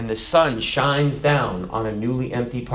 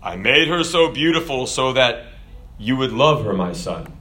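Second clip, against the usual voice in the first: lightly voiced God, measured and fatherly; a hint of booming God, dropping low at the end; 3 semitones lower than usual. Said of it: "God's booming voice came back".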